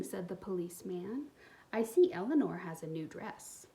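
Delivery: put-on expressive read-aloud for young kids; storybook reading. A narrator's reading. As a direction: tell the story warmly to little listeners. Reads picture book aloud.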